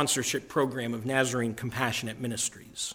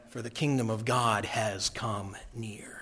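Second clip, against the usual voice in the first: hushed whisper, almost breathed; a sacred secret, whispered; 6 semitones lower, 6 dB quieter than usual. Acted. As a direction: let it fall to a whisper.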